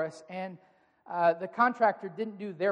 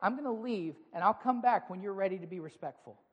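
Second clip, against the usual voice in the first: calm. Shown as a demonstration. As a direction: stay calm and steady, no heat. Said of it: "You calmly say".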